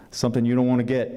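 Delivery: put-on a country vet's southern accent. Grandfather teasing the boy, in a southern accent. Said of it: "apologize in advance for my southern accent".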